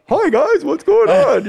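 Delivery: a bright, high, naive hello; mock naive greeting. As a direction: play the clueless new kid. Nervous newcomer greeting tough kids.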